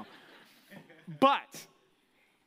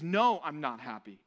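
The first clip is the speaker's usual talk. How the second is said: stern master; 6 semitones lower than usual. Retold or imitated. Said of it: "And he says".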